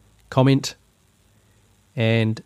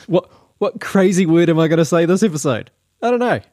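mock dramatic; 6 semitones higher, 3 dB louder than usual. Real, not acted.

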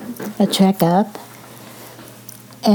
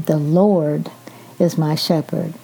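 "Lord" stressed, then a pause; 2 semitones lower than usual. Shown as a demonstration. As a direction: lean on "Lord", let the rest fall away. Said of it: "emphasize each word at a time".

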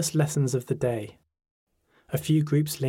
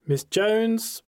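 Welsh teacher; 9 semitones higher than usual. A narrator's reading. Teacher calling the register.

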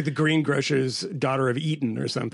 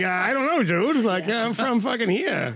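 put-on annoyed teen; 7 semitones higher than usual. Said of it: "they're like".

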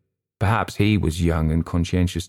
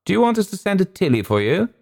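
lightly voiced tipsy senior officer, drawled and higher; drawling wing commander; 12 semitones higher than usual. A narrator's reading. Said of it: "he drawled".

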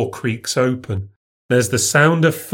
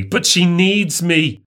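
higher, slow insistent retort; sharp retort; 5 semitones higher, slower than usual. Acted. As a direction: snap back with a raised pitch. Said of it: "He says sharply".

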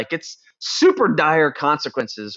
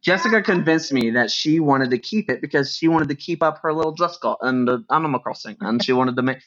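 put-on silly childlike voice; kid voice. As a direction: mimic a little kid lightly. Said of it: "that's my stupid voice, I'm sorry, that's, like, my kid voice".

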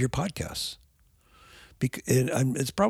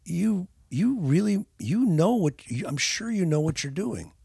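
1 reassuring, higher; 8 semitones higher than usual. Shown as a demonstration. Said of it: "they wanna hear".

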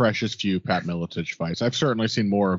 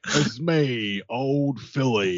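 Phil McKenzie impression; 3 semitones higher, much slower than usual. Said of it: "wonderful Phil McKenzie impression".

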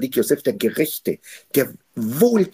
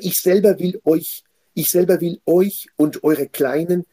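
drawn out, stress on selber; slow solemn quote; 5 semitones higher, slower than usual. Acted. Preacher voicing Joseph's promise to his brothers, slow and solemn. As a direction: promise it slowly, leaning on selber.

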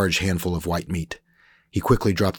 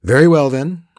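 higher, louder smug Frenchman; Frenchman Rolf; 9 semitones higher, 10 dB louder than usual. Acted. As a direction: sell it like a slick French trader. Rolf replies.

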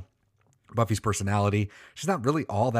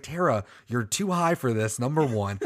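higher, animated mock scolding; scolding a friend; 6 semitones higher than usual. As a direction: lecture her like a worried friend. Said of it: "I was like".

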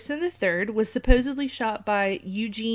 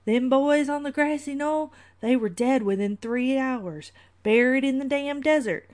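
put-on old man's drawl accent; 3 semitones higher than usual. Host acting the old man from Shooter, terrible put-on accent. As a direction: put on a bad old-timer movie accent. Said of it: "let me work on this accent".

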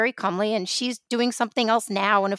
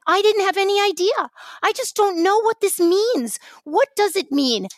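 high, louder mock-clueless protest; mock bewilderment; 11 semitones higher, 4 dB louder than usual. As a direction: imitate her helpless cluelessness, pitched way up. Mocking the actress's claimed innocence.

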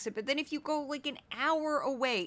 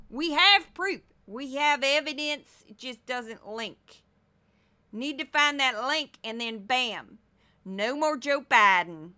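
put-on Southern accent, punchy, louder on proof and bam; mock Southern accent; 3 dB louder than usual. Host mocking her empty proof claims in a Southern accent. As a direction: keep the Southern accent, bragging. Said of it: "I'm doing an accent that I grew up around".

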